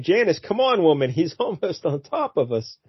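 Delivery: high, hurried mock urging; lightly hammed call to a fallen woman. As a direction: hurry her up like a panicked boyfriend. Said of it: "he's like".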